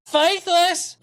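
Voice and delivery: high mocking laugh; mocking jackal cackle. Mocking the commenter Flat Earth Jackal with a high laugh. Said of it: "That's the Jackal part".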